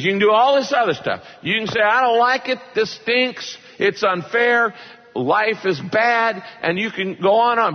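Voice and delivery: high, lively permission; voicing God. God telling people they may complain, high and lively. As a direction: let God sound generous and easy. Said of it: "He says".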